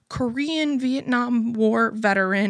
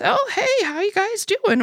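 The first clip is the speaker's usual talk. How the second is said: imitating neighbor Jim; 11 semitones higher than usual. Neighbor Jim greeting them.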